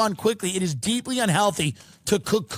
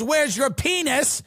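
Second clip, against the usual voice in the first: alarmed parent; 5 semitones higher than usual. Retold or imitated. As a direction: demand it like a shocked parent. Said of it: "the parent goes".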